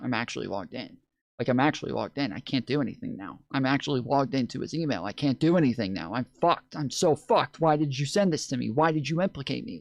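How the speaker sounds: play-acted, full-on panic, losing control. Retelling a streamer sitting there forever, losing their mind: imitating someone freaking out. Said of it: "losing their minds".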